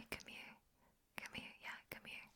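very soft whisper; whispered beckoning. Acted. Coaxing the listener to come nearer, whispered. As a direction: beckon them closer under the breath.

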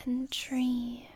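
soothing whisper. Acted. Lulling partner toward sleep.

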